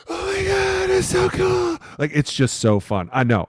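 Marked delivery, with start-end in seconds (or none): 0.1-1.8 much higher, squealing with delight; amazed excitement. Retold or imitated. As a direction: gush like a kid seeing magic. Awed at a wild trick play.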